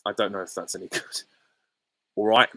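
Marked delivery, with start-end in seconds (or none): 2.2-2.5 loud, casual Cockney greeting; Cockney accent. Acted. Streamer demonstrating a soap character's catchphrase, Cockney accent. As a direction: toss it out in Cockney, a bit louder. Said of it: "It's just a Cockney accent".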